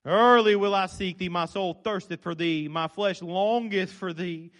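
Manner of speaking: slow, solemn psalm reading; measured King James recitation; scripture reading. Acted. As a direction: read the psalm reverently. Reads psalm aloud again.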